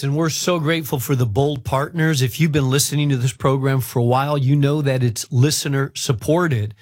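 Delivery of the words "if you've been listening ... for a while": ordinary delivery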